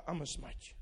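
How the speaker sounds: soft, low, limp "I'm gonna smite you"; a weak mock threat; puny threat. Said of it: "No, he's not scared".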